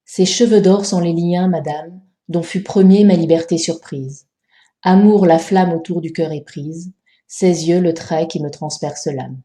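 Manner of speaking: measured poetry recital, every syllable counted; scanned verse reading. Shown as a demonstration. Teacher showing how to scan the quatrain, measured verse reading. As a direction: scan the quatrain evenly, falling at line ends. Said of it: "Voici donc comment scander ce premier quatrain".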